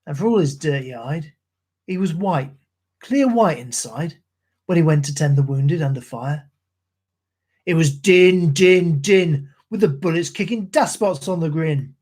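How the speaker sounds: rhythmic ballad recital in a Cockney soldier's voice; poem recitation. Acted. Streamer reciting Gunga Din to his stream, in a rhythmic Cockney recital. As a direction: recite like an old London soldier.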